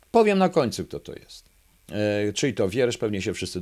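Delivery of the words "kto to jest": whispered teasing aside; hushed, keeping the author a secret. Real, not acted. Teasing hold-back of the author.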